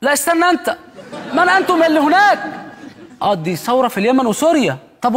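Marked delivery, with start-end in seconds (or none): 0.0-2.4 Gaddafi quote. Retold or imitated. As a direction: demand it from the podium. Gaddafi "who are you" quote.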